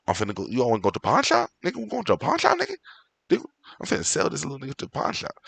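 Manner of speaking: fast excited street voice; quick, jumpy, pitch leaping up; hyped dude voice. Retold or imitated. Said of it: "He was like".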